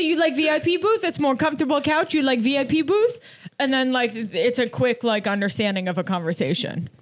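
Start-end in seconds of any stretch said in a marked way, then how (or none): 0.0-3.2 put-on Persian accent. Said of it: "I say".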